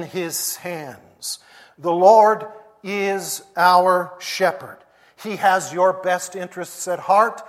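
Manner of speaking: rising sermon cadence on a refrain; preaching. Acted. Pastor assuring his church of God's care, preaching. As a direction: preach it home, building with each return.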